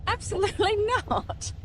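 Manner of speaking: laughing it off; a high laughing no. Real, not acted. Asked to try bogging again.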